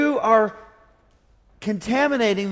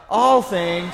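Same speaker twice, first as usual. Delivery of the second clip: shout; 2 semitones lower than usual. Shown as a demonstration. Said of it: "Everybody shout".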